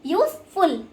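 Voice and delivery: USEFUL broken into two syllables, use-ful; teacher splitting USEFUL as use-ful; syllable break. Shown as a demonstration. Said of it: "We can break it easily".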